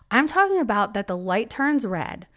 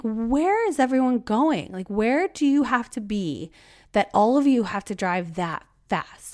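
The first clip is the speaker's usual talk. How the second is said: exasperated; 4 semitones higher, 4 dB louder than usual. Retold or imitated. Ranting about fast drivers.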